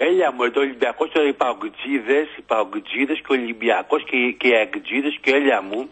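mock Athenian caller, "έλα" turned into "έλια"; προφορά με ελαφρύ λάμδα. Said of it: "αυτή η προφορά τη μαζέψει". (μίμηση νότιας προφοράς με μαλακό λάμδα)

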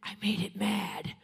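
slow whisper; slow anxious whisper; whispered worry. Retold or imitated. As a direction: breathe it out afraid. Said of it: "I'm thinking".

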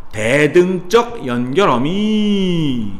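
대등적 연결어미 drawn out slowly, each syllable stretched; slow emphasized term. Shown as a demonstration. Teacher stretching 대등적 연결어미 so students memorize it. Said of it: "teacher drills the term".

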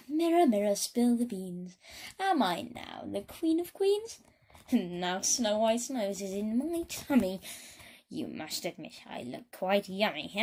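haughty singsong queen voice; vain queen. Acted. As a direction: preen at the mirror. Queen addresses her mirror.

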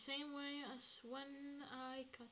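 hushed sneaky whisper; whispering while sneaking. Real, not acted. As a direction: breathe it so nobody hears. Sneaking past in game.

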